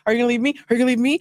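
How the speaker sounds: mock anxious plea. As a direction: imitate an insecure partner begging for an answer. Acting out their anxious daily question.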